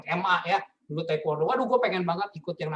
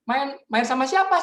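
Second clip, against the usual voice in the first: alarmed mom repeating; 7 semitones higher, 6 dB louder than usual. Retold or imitated. Mother demands again.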